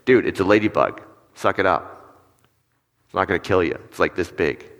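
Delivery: dismissive acted put-down; understated, impatient brush-off; turning against them. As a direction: tell a kid to toughen up. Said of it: "Or I can turn against them".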